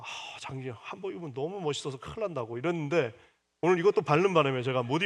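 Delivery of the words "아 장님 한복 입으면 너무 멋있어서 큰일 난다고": wife's flattering tease. Retold or imitated. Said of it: "우리 아내가".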